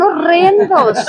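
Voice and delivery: slow, laughing "horrendos"; amused slow scorn; laughing disdain. Real, not acted. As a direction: drag the word out through a laugh. Mocking school festivals.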